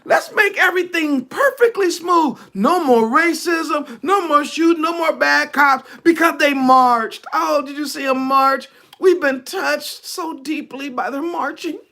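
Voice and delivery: mock the government groveling over the marches. Preacher mocking the government's fake repentance, hammed-up high voice. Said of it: "the government gonna be like".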